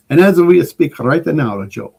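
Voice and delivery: hammed-up mock Italian accent, slowed down; lilting fake Italian accent; horrible Italian accent. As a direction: put on a deliberately bad Italian accent. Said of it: "that really horrible Italian accent".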